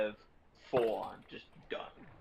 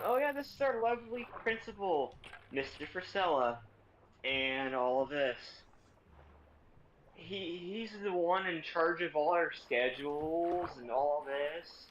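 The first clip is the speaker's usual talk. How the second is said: gushing, higher-pitched suck-up voice; fawning teacher; 4 semitones higher than usual. Retold or imitated. Teacher flattering the principal in front of class, gushing and high. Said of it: "my teacher starts kissing his ass".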